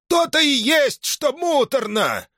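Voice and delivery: put-on high, indignant old man's shout; scandalized that his son talks back; furious father shouting at his son; outraged old man. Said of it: "закипятился пуще прежнего".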